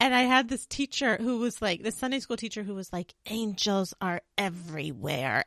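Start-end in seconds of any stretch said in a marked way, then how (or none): 3.3-5.4 fervent, very intense, dead-serious conviction. Retelling what a sunday school teacher said: imitating an intense teacher. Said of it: "very intense".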